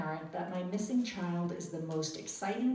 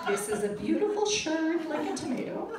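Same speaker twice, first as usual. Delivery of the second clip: mock tourist Italian, higher pitched and earnest; halting phrasebook tourist; 10 semitones higher, 6 dB louder than usual. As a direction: describe the lost son in mangled textbook words. Phrasebook Italian describing clothes.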